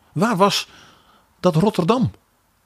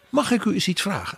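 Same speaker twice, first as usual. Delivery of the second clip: higher, lightly polite request; non-confrontational question; 4 semitones higher, 4 dB quieter, faster than usual. Retold or imitated. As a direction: imitate a mild, courteous interruption. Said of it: "Niet eens negatief of zo interrumperend".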